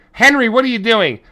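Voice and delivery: mother calling out. Retold or imitated. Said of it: "She goes".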